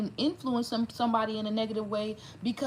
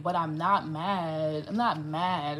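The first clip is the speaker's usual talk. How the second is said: insisting not mad; 5 semitones lower, slower than usual. Real, not acted.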